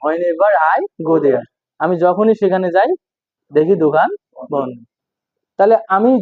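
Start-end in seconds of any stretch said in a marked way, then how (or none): 0.1-1.4 slow teaching read. Shown as a demonstration. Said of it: "teacher repeats phrase slowly".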